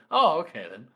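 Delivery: lightly voiced, too-easily-convinced torturer; torturer giving in. Torturer accepting the perfect explanation, mock easily convinced. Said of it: "the Torchwood would just go".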